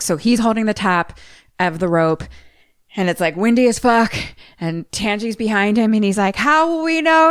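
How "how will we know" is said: high, loud, urgent call; raised voice, acted-out urgency; retold urgent question. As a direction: call out anxiously, pitched up. Retelling Dad calling out in panic.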